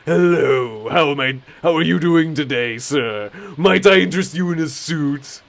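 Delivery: loud, eager sales clerk pitch; overly enthusiastic salesman. Retold or imitated. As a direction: gush at the customer like a salesman. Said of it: "he'd be overly enthusiastic".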